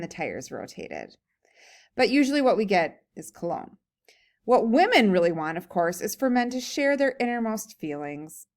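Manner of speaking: lively, emphatic story reading; humorous read-aloud. A narrator's reading. Reading a comic essay to a class, animated read-aloud. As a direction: read it aloud with punchy key words.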